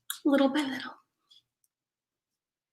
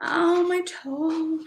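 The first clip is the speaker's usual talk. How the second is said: drawn-out, higher pained moan; stubbed toe pain; 6 semitones higher, 6 dB quieter, much slower than usual. Real, not acted. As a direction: wince out the words slowly. Hurts toe while streaming.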